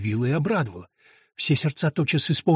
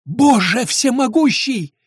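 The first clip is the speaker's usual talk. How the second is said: much higher, slow, astonished cry; startled cry; 9 semitones higher, 4 dB louder, slower than usual. A narrator's reading. Prisoner sees Lorenzo's face, astonished cry. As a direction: gasp out recognition. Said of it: "вскричала узница".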